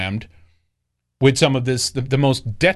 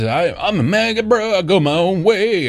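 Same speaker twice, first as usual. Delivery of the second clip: macho bro voice; 5 semitones higher than usual. Retold or imitated. Mocking a macho mega bro.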